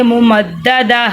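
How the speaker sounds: مو مد دا دا ending on a breathed "h", no "tin"; pausal "h" ending. Shown as a demonstration. Teacher showing the reading at a stop, final t turned to h. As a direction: close مو مد دا دا with an h sound. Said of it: "ہم ہا کی آواز نکالیں گے".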